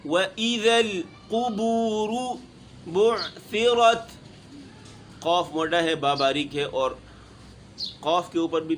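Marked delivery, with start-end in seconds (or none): 0.0-4.1 melodic, measured Quran recitation; chanted tilawat; Quranic recitation. Shown as a demonstration. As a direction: recite the verse with tajweed. Teacher recites Quran verse.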